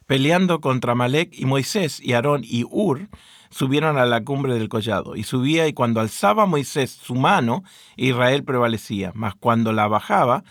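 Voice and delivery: measured Bible reading, slowing in places; scripture reading. Real, not acted. Co-host reads the battle verses to listeners, measured scripture reading.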